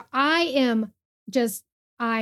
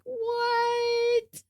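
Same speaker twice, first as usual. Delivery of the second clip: high, incredulous what; mock disbelief at a rant; baffled what; 12 semitones higher than usual. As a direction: act out a stunned double take. Reacting to a rant post.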